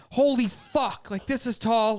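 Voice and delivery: slow, loud panicked exclaim; retold freak-out. On the zipline tower, retold panic, slow and loud. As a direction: gasp it out, terrified at the top. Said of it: "I'm fucking freaking out".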